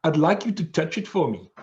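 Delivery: imitated South African flight attendant; South African accent. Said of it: "in her South African accent".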